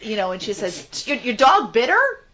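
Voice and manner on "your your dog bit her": Wicked Witch voice. Retold or imitated. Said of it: "like the witch in Wizard of Oz".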